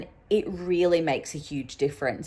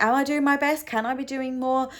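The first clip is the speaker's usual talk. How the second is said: higher-pitched acted self-questioning; self-doubting inner voice; 8 semitones higher, faster than usual. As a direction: voice your own doubts, pitched high. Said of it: "And then I'm like".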